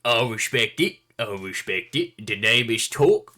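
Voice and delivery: loud, hearty drinking-buddy voice; boisterous warrior. Acted. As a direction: bellow it like a proud bodyguard. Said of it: "just kinda be like".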